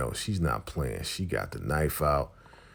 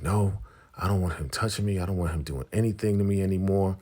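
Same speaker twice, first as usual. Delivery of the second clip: higher, fast agitated refusal; upset protest; 6 semitones higher, 3 dB louder, faster than usual. Retold or imitated. Woman refusing River's deal, upset protest. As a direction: protest quickly, pitch raised. Acted refusal of being touched.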